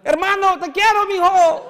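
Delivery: put-on loud, high Spanish call with a Latino accent. Padre gritando a su hijo en español con acento latino. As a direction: belt the Spanish with Latino pride. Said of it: "that he's Latin".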